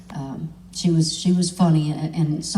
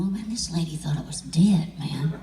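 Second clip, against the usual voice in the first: hushed whisper to himself. Retold or imitated. Alone after signing, hushed whisper to himself. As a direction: whisper it like a sad private thought. Retold sentimental thought.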